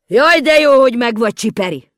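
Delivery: high, loud cry of relief; loud relieved call. A narrator's reading. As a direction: shout with joy at finding her. Mikka Makka calls out relieved.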